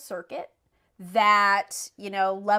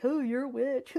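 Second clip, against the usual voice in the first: mock spooky witch line; 3 semitones higher, 3 dB quieter than usual. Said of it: "He didn't say it in a way that was like".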